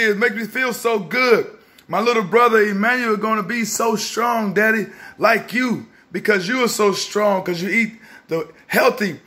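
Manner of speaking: a dad lightly voicing his son's excitement over the berry drink; voicing his excited son. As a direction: play his excited young son praising Daddy. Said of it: "Elisha is so excited, like".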